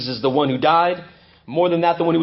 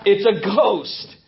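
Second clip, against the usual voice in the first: "It's a ghost" said very slowly and heavily; slow, drawn-out telling; 3 semitones higher, much slower than usual. Retold or imitated. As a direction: let each word sink in slowly. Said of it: "you would have said the same thing".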